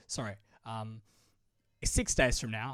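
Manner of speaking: drowsy, sleepy voice; slurring a little, half asleep. Real, not acted. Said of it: "I'm half asleep again".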